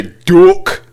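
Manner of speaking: "Duck" said as "dook", Scottish style; Scottish accent. Shown as a demonstration. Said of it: "here's how to do a Scottish accent".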